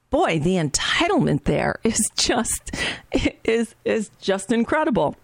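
breathy disbelieving whisper; whispered aside about her entitlement. Real, not acted. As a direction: hush it, appalled at the entitlement.

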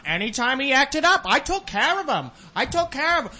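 high mock mother boasting; hammed-up mother bragging about discipline; mimicked proud mom. Escaped prisoner's mother on local news, hammed-up pride. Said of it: "the mom's going".

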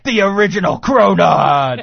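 loud hype announcer through laughter. Acted. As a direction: sell it like a monster truck ad. Ad announcer parody.

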